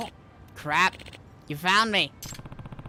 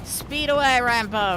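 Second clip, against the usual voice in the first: excited call; 5 semitones higher, 4 dB louder, slower than usual. Acted. Urging the dog on.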